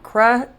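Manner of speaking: "Crutches" broken as crut, pause, ches, with a soft T; split, quiet T. Shown as a demonstration. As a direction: pause inside "Crutches" after a stopped T. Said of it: "It's very quiet sound".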